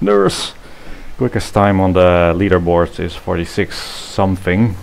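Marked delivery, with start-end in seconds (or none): 0.0-0.5 calling out. Acted. Sudden call out in stream.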